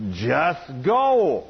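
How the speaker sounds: drawn-out, lightly voiced divine command; a hint of God's booming voice. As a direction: imitate a booming heavenly voice, mildly. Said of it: "I heard this booming voice".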